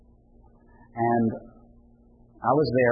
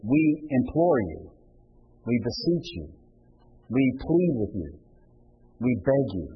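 pleading. Shown as a demonstration. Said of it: "What he says is".

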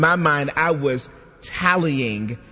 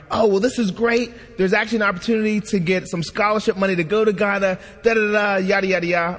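higher-pitched, quick upbeat read-out; chirpy email reply; 5 semitones higher, faster than usual. Retold or imitated. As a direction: imitate an enthusiastic email, trailing into yada-yada.

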